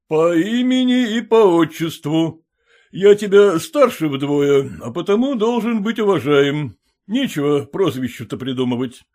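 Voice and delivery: медленно, важно, надменно; чванливый барин поучает; голос Холмогорова. Acted. (Холмогоров важно требует уважения)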